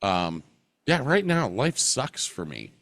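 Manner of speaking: stuffy nose, mouth breathing; blocked nose. Real, not acted. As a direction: talk through a blocked nose. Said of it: "I can't breathe through my nose at all".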